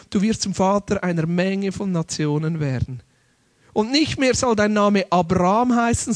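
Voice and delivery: ruhige, getragene Schriftlesung, etwas tiefer; Bibellesung. Acted. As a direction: lies den Bibeltext feierlich und gesammelt vor. Liest Bibeltext feierlich vor. (feierliche Lesung der Verheißung aus Genesis)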